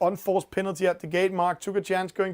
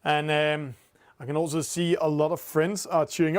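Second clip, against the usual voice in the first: ordinary talk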